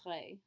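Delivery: "Très" with a French R and a silent S. Shown as a demonstration. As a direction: roll "Très" back in the throat, like "tray". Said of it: "the Frenchy R in there".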